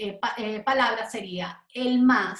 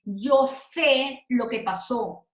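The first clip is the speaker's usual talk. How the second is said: slow teaching example; slower than usual. Shown as a demonstration. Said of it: "cuando pertenece a un verbo".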